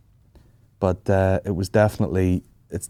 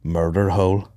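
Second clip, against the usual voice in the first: deadpan Irish matter-of-fact; 2 semitones lower, 4 dB quieter than usual. Retold or imitated. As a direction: drop "Murder Hole." quietly and leave it hanging. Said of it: "so Ireland to just be like".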